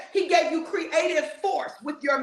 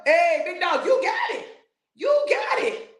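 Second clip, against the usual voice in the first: mock hype; 4 semitones higher than usual. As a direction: cheer someone on like a buddy.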